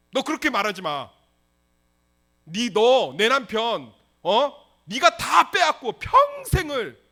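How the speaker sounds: loud, rising accusing sister; angry confrontation. Acted. Leah finally stands up to Rachel, loud accusing outburst. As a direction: let the years of grievance burst out loud.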